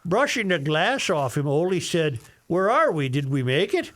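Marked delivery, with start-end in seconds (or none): 2.5-3.9 put-on Norwegian accent. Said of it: "use your worst Norwegian voice".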